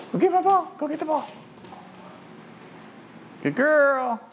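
gushing praise for the dog; excited dog praise. Real, not acted. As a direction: cheer the dog on.

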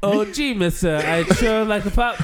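put-on eager old-timey kid; 1950s kid voice.

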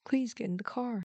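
gentle offer, pitched a little up; sympathetic. A narrator's reading. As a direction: invite kindly, with sympathy. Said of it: "said sympathetically".

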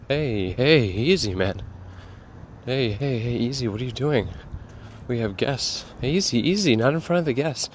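hushed scolding, rising into urgent pleading; calm down an unruly pet; embarrassed cat owner. Acted. Owner to cat in front of guests, urgent shushing.

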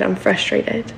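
fading to a breathy whisper; whispered, spent and defeated. Retold or imitated. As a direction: let the last one die into a whisper.

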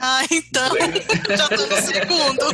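giggling, barely holding it in; stifled giggles. Real, not acted. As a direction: laugh through the line. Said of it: "Para de rir".

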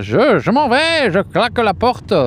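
slow, high-pitched mock Spanish accent, loud; hammed-up Spanish accent for a quitting couturier. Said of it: "Il est bien, mon accent espagnol". (accent espagnol caricatural, lent et aigu)

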